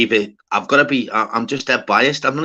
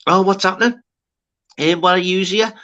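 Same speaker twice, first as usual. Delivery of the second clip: imitated heckling comedian; 7 semitones higher than usual. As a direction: pick on someone from the stage. Acting out comedian picking on audience.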